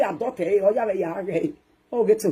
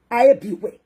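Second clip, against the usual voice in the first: loud outraged question; mock outrage; 5 dB louder, slower than usual. To the crowd, loud mock outrage. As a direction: demand to know where you are.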